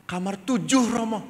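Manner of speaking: put-on high, loud child's answer; eager schoolchild. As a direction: answer brightly as a little kid. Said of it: "Saya ketemu anak S D".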